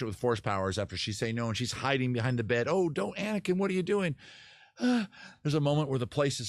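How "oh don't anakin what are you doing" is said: high-pitched mock panic; mock alarm. Wife hiding behind the bed from her husband, mock alarm. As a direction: plead in a hammed-up, raised voice.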